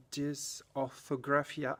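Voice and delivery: dysorthographia slowly, with an attempted English accent. Shown as a demonstration. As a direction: try the French term in English pronunciation, slowly. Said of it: "French words that I try to say in an English accent".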